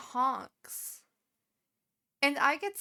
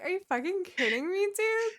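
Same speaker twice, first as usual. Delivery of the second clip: higher, fast, mock disbelief; mock outrage; 8 semitones higher, 5 dB louder than usual. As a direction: pretend to be shocked he forgot you.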